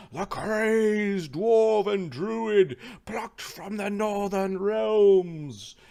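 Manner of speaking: slow, loud, high-pitched grand introduction; drawn-out ring-announcer proclamation; arena announcer. Acted. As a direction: stretch each phrase for the crowd, ending in a long shouted name.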